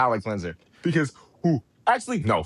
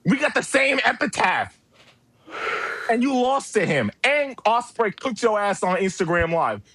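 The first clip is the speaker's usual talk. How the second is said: raised-pitch furious tirade; furious rant; 4 semitones higher than usual. Real, not acted. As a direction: tear into him, higher and heated. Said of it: "I'm shaking with rage".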